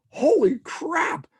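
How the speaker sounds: high, slow, drawn-out exclaim; excited realization. Retold or imitated. Realizing Saturday night is free, excited outburst. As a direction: let the joy burst out slowly.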